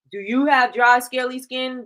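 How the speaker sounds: mild hint of a sleazy infomercial pitch; a touch of cheesy salesman hype, lightly done. Shown as a demonstration. Teacher demos the old-school infomercial hook to students, lightly hammed-up salesman pitch. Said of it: "the sleazy salesman".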